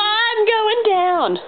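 slow, high, stretched out; slow drawn out. Pretend. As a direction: draw it out while sinking. Dramatic slow descent into splits.

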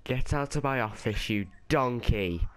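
furious boss yelling; angry shouting. Acted. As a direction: throw him out of the office. Boss throws applicant out.

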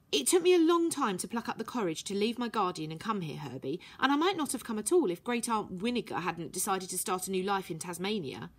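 a hint of a young girl, earnest; lightly voiced girl. Violet explaining her past to Herbie, lightly voiced girl.

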